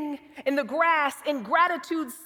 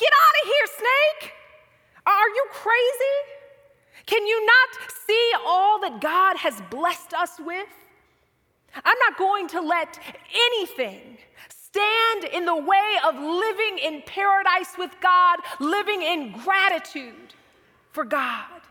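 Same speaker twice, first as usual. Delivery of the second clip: bold, confident proclaiming, full of conviction; 3 semitones higher than usual. Speaker imagining what they should have said to the snake, acting out a faith-filled proclamation. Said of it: "proclaimed in a faith-filled voice".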